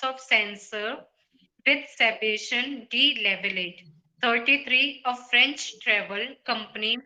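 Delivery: reading aloud haltingly, breaks falling mid-phrase; misplaced pauses. Real, not acted. Student sight-reading an article for the teacher, pausing in odd places. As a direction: pause in the wrong places as you read. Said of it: "you were not pausing at the right places".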